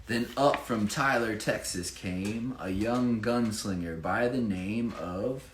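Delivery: lively rhyming read-aloud; bouncy storybook reading voice; story narration. Acted. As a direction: read it like a picture book for children. Reads rhyming Chiefs picture book.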